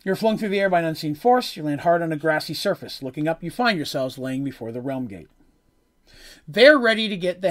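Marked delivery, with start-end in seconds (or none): 0.0-5.3 scene setting read aloud; storyteller narration voice; game master read. A narrator's reading. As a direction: read the boxed text to the table. Reads out scene text.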